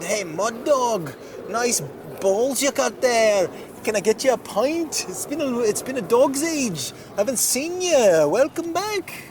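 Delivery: high, loud barroom welcome; loud cheerful greeting. Acted. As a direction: holler it like rowdy regulars. Pub crowd greets Mud Dog loudly.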